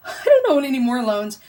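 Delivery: real laughter through the words; laughing with joy. Real, not acted. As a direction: laugh out the good news. Celebrates paying off loans.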